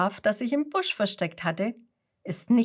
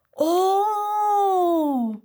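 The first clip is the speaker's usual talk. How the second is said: high, loud astonished gasp of Oh; a whole flock gasping in wonder; staunendes Oh; 12 semitones higher, 6 dB louder than usual. A narrator's reading. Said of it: "ruft die ganze Schafherde staunend". (hohes, lautes staunendes „Oh“)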